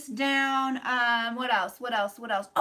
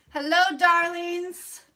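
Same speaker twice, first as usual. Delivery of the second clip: campy drag queen; 4 semitones higher, 5 dB louder, slower than usual. Acted. Campy slow greeting to viewers.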